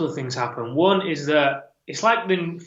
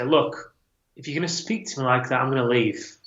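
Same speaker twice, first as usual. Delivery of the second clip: calm. Retold or imitated. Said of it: "just very calmly say".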